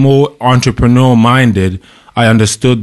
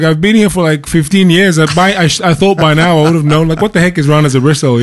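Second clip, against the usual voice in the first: higher, incredulous self-quote; retelling his puzzled reaction to the stage manager's slang, pitched up in disbelief; baffled exasperation; 6 semitones higher than usual. Retold or imitated.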